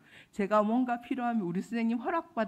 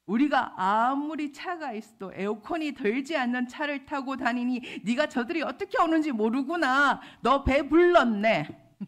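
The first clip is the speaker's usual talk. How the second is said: raised-voice reproach, retold; angry husband; 5 semitones higher, 8 dB louder than usual. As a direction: imitate a husband's indignant telling-off. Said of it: "화를 내지 않는 남편이 그러더라고요".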